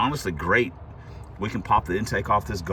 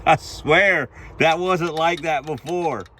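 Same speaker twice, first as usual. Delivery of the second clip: shocked disbelief; 6 semitones higher, 6 dB louder, slower than usual. Real, not acted. Shocked at collapsed lifter.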